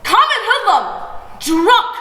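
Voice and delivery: high, loud shrieked insults; scream. A narrator's reading. Mother screaming insults at father, high and loud. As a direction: shriek the names at him. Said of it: "Uma screams".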